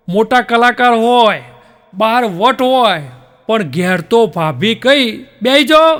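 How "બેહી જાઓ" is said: higher, louder order; bossy command. Acted. Wife ordering the big officer husband to sit, bossy. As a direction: bark it like the boss of the house.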